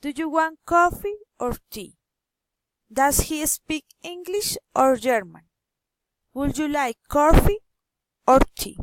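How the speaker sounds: up on the first choice, COFFEE or ENGLISH, down on TEA or GERMAN; rising-falling intonation. Shown as a demonstration. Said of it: "rising and falling intonation".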